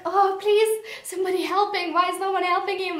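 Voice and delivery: mildly desperate, high-pitched plea for help; desperate pleading. Retold or imitated. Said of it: "feeling so desperate for him".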